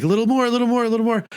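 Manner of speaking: urging medical staff. Retold or imitated. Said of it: "And they're like".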